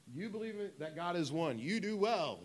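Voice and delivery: high-pitched sarcastic praise; mocking. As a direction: read it as mock congratulation. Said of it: "he's mocking you".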